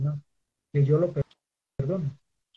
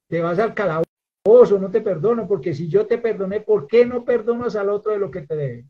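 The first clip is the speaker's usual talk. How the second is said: stern king; 5 dB louder than usual. Acted. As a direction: pass judgment from the throne. The king condemns the servant.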